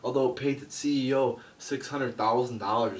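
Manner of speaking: mock Hulk Hogan hyping a charity; Hulk Hogan impression. Vlogger mocking Hogan on charity, Hulk Hogan voice. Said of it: "That's probably what he would have done".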